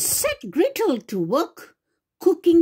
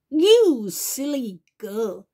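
cackling witch. Acted. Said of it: "cackled the witch".

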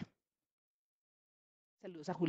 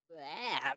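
low, quiet yucky groan; babbled "buah"; 5 semitones lower, 11 dB quieter than usual. Acted. Little leopard reacting to the hyena's hug, babbling. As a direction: blurt a small muffled "bleh". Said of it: "balbucea Leopardito".

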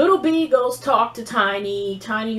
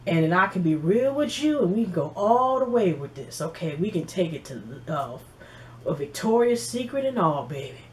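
a hint of a low, smooth seducer, trailing soft; smooth ladies' man; 4 semitones lower, 3 dB quieter than usual. Fizz advertising himself to the ladies, lightly voiced smooth talk. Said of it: "He was also advertising like".

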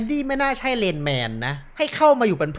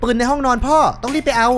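higher-pitched, rising panic; urgent alarm; 6 semitones higher than usual. Acted. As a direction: react as if an intruder is inside. Acting out power cut, intruder. (ตื่นตระหนกเสียงสูง เร่งรีบ)

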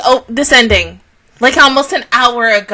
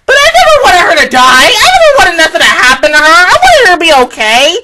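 pleading shout; 2 semitones higher, 5 dB louder, faster than usual. Real, not acted. Insisting on her feelings.

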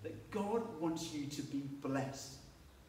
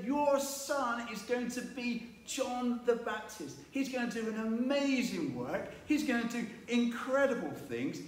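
a hint of an eager angel, higher; excited angel; 6 semitones higher than usual. Angel Gabriel tells Zechariah, a touch of excitement. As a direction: announce the good news with lightly voiced excitement. Gabriel announces John's birth.

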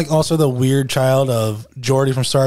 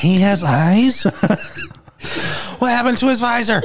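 mock astonishment; 5 semitones higher than usual. Fan first seeing the actor without visor, mock astonishment. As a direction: act the baffled viewer.

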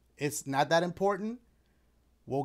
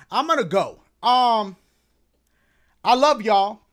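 winded loud sign-off; breathless after running over; out of breath; 8 dB louder than usual. Real, not acted. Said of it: "I might be a little bit out of breath".

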